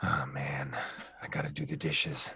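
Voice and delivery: deep, low character voice. Showing how the voice slips out while doing dishes: Geralt voice. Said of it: "So the Geralt voice now".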